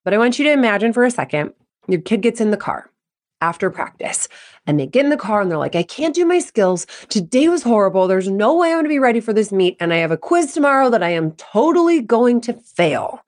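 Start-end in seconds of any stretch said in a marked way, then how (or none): 5.8-13.2 mild whiny complaint, pitched up at first; upset kid venting. Acted. Kid venting to parent in the car after practice, upset. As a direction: voice a stressed kid's despairing vent.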